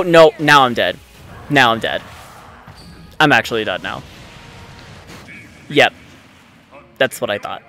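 usual speaking voice

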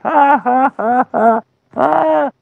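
high, mocking giant's cackle; hammed-up villain laugh, pitched high; cackling giant. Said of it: "laughing and cackling".

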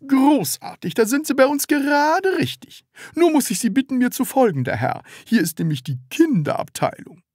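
high, bright-toned shop assistant voice; eager salesman. A narrator's reading. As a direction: play the overly keen salesman. Salesman voice in read story.

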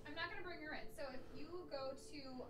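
hushed, breathy whisper. Real, not acted. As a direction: whisper so the pet sleeps. Whispering near sleeping pet.

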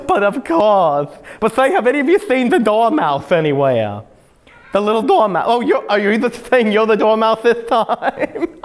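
lightly voiced whimsical hatter; playful tea party host, a little mad. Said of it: "do you know the voice of Mad Hatter?".

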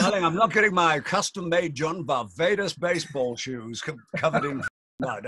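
a hint of diva complaining about his shoes; fussy rock star. Mocking his own rock-star fussiness.

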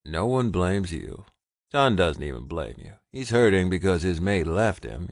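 steady, comforting, firm; firm reassurance. Acted. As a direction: reassure him it's not his fault. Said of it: "he stated firmly".

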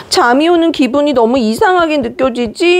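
put-on soothing a fussy baby. Shown as a demonstration. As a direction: comfort a sleepy crying baby. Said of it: "잠투정하면서 막 우는 아기한테는". (잠투정하는 아기를 달래듯 부드럽게)

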